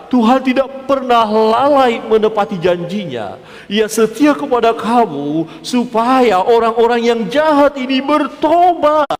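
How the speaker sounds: slow, high preacher's proclamation; emphatic preaching. Real, not acted. Preacher proclaiming God's promise to the congregation, emphatic. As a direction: preach it out with rising force.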